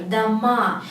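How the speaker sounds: "dama" with a stressed, drawn-out "ma"; weight the final vowel of "dama"; stress on last syllable. Shown as a demonstration. Teacher explaining the plural, "dama" stressed on the end. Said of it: "if the stress goes to the last letter".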